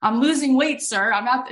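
imitating someone flustered on the phone, high pitched; high, nervous stammered explanation, acted out; mock shaking. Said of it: "and she's, like, shaking".

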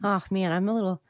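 mock-Australian with "toy-ed" for tired; casual put-on Australian; Australian accent. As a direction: mimic an Australian talking to yourself. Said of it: "Australian there".

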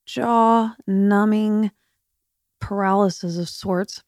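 words slurred from jaw surgery; numb jaw. Real, not acted. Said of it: "See, I can't even talk".

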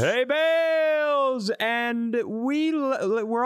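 long high drawn-out call; announcer echo. Pretend. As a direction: boom the name slowly, hammed up. Echoes intro drawn out.

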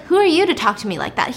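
fast, mildly angry retold retort; pissed off. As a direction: act affronted, rattling it out quickly. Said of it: "He's just pissed".

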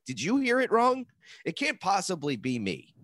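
high, disbelieving question; incredulous self-defence. Acted. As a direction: question them in a rising, high-pitched voice. Acting out doubting the listener.

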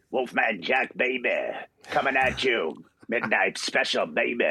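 a light hint of a late-night radio DJ; Wolfman Jack impression. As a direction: croon it like a hip DJ, lightly. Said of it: "so I put, like".

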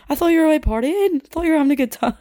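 imitating drunk friend. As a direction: squeak it out like a sleepy drunk mate. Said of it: "eyes closed as she's saying this".

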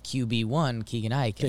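lightly put-on Texas accent; a hint of Texas football twang. Shown as a demonstration. Co-host showing how they usually say a pitcher's name, light Texas accent. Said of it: "said it in a Texas accent".

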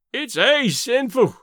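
high, slow Scottish moan. A narrator's reading. Scot watching the men dance while his wood is lost, moaning. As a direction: moan it out, drawn long and high. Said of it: "Davy moaned".

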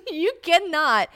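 slow, high, loud incredulous reply; mock exasperation. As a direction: laugh it out high and drawn-out.

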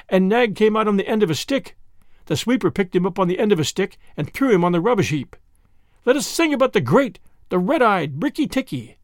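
a proud bird praising its hero; excitable little bird. Acted. Darzee voiced.

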